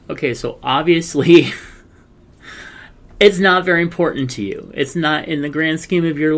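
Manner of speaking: high, pointed sarcastic jab. Retold or imitated. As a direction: lay the sarcasm on thick. Quoting dismissive ex.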